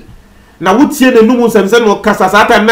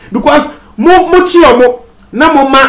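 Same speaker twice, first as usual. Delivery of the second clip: imitating the police; 7 semitones higher than usual. Voicing police officers' advice.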